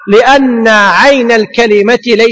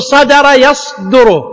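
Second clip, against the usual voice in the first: slow, deliberate verb pattern; teacher modelling a verb; slow demo; much slower than usual. Shown as a demonstration. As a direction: spell out صدر يصدر slowly. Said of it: "تقول".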